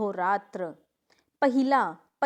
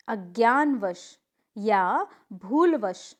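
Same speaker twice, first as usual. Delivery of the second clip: very slow dictation; much slower than usual. Shown as a demonstration. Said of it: "teacher stretches rule words slowly".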